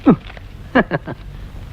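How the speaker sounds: laugh. Acted. Customer laughs off torn note.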